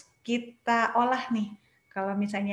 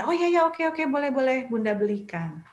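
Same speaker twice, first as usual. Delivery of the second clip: eager giving-in parent; 3 semitones higher, 3 dB louder than usual. Retold or imitated. Parent gives in to crying child. (orang tua buru-buru mengalah pada anak yang menangis, lebih tinggi dan keras)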